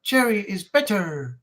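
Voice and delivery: slow, drawn-out Yorkshire accent. Shown as a demonstration. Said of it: "Why do I sound like a Yorkshireman".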